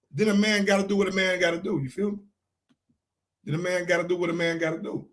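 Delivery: ordinary delivery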